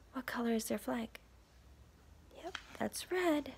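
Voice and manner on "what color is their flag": whisper. Real, not acted. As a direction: whisper it like a secret. Quizzing kids about picture.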